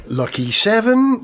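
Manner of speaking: slow bingo call; bingo caller. Pretend. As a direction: call the number slowly. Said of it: "bingo caller on acid".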